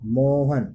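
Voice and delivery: मोहन called with the ओ held long; calling out a name. Shown as a demonstration. Teacher's second calling example, drawn out. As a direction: call out मोहन, holding the vowel. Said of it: "किसी को पुकारने में".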